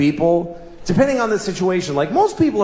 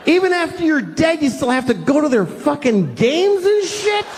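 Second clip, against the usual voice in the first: mock scolding rant; 3 semitones higher, slower than usual. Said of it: "I wanted to be there to say".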